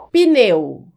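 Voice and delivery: "pneu" said slowly, mute P eased by a faint short i. Shown as a demonstration. Teacher offering viewers the second option, pneu with mute P. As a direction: say "pneu" as pi-NEU, with no e after the P. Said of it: "Você deve pronunciar com o P mudo".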